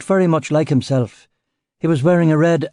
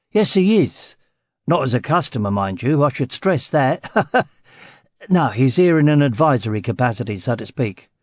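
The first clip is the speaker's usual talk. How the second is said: Cockney. Acted.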